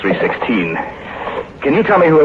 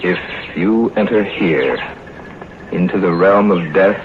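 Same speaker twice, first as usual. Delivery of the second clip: slow solemn reading; slower than usual. Acted. Reading the grim inscription aloud.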